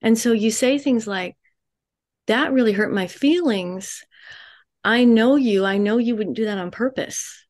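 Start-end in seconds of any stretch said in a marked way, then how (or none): 2.3-7.4 unhurried, gentle and non-accusing; soft calm cadence. Shown as a demonstration. Counsellor showing wives how to voice hurt calmly and gently. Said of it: "just that cadence, just that tone".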